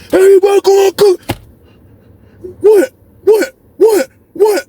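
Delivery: high-pitched, hammed-up aggressive shout; shouting cellmate. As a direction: fire it off like the angry cellmate. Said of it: "He was like".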